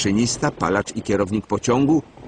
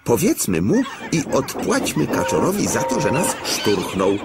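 laughing scheme; 5 semitones higher than usual. Acted.

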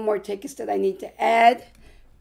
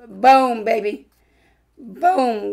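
excited; 4 dB louder, much slower than usual. Real, not acted. Celebrating a scratch-off win.

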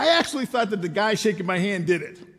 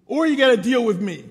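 stern dad order; 4 semitones higher, 6 dB louder than usual. Retold or imitated. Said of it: "He has no idea".

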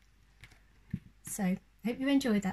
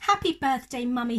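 happy cry; 4 semitones higher, 3 dB louder than usual. Acted. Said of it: "he cried".

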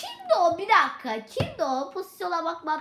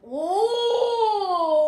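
loud, rising surprised cry; 2 semitones higher, 6 dB louder than usual. Real, not acted. Gamer surprised at a Benfica offer, loud exclamation. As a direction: gasp out in surprise.

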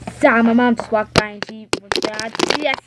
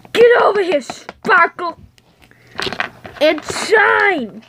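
calling out; 7 semitones higher, slower than usual. Acted. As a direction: summon them across the room. Calling characters over.

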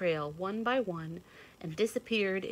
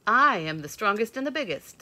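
put-on proud young buck; 4 semitones higher, 10 dB louder than usual. A narrator's reading. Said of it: "said the young buck".

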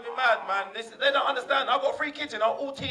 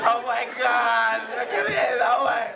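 mock ecstasy; slower than usual. Acting a young woman's pleasure.

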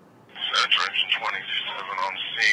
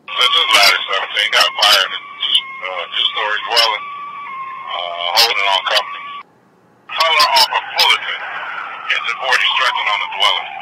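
firefighter command; 6 dB louder than usual. Real, not acted. Urgent fireground radio report.

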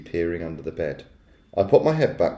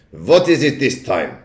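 slow, exasperated witch with a put-on accent; shouted; 3 semitones higher, 3 dB louder than usual. A narrator's reading. Witch answering a knock at the door, shouting. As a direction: call out slowly, annoyed at the interruption. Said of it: "shouted the Grand High Witch".

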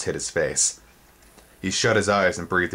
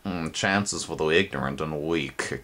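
creepy goblin voice. Acted. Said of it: "came a voice that turned Twig's skin to goose flesh".

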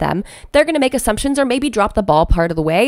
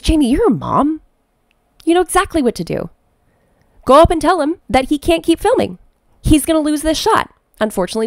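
a higher, lightly voiced pep-talk from a friend; firm encouragement, pitched up; assistant's voice; 6 semitones higher than usual. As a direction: friend nudging Jamie to act like a mom. Friend coaching her, voiced quote.

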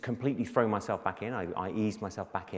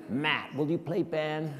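high, drawn-out mock call across a room; 9 semitones higher, 4 dB louder, slower than usual. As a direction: imitate a producer casually calling to someone nearby. Mimics producer calling across room.

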